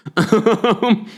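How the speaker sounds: high, voiced chuckle; a short, high laugh; laughter. Real, not acted. Amused by the fuss over accents, laughing. Laughing at their own remark.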